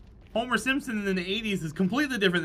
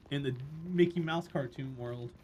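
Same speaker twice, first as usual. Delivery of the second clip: ordinary talk, nothing marked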